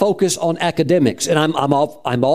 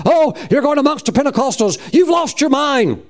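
imitating scornful family, pitched up and slowed; mocking disbelief; 10 semitones higher than usual. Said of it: "they thought".

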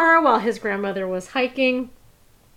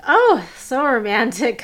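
slow, louder mock swooning; kind of obnoxious; 3 semitones higher, 6 dB louder, slower than usual. Date commenting on the restaurant's dim lighting, playfully obnoxious. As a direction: draw it out obnoxiously, imitating a date. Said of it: "kind of obnoxiously".

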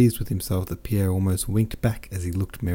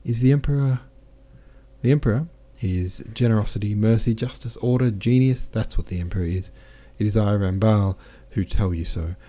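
lightly voiced, lively boastful officer; a hint of a jovial soldier bragging; cheerful French captain; 2 semitones higher than usual. Captain boasts of his wounds to Pierre, lightly voiced jovial.

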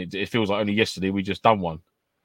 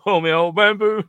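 mock Cockney; 10 semitones higher, 4 dB louder than usual. Dick Van Dyke Cockney bit.

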